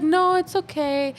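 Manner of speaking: slow, high-pitched imitation of a serious reply; drawn-out retold "it's okay"; serious reassurance. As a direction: mimic a stiffly polite brush-off. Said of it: "she was, like, very serious".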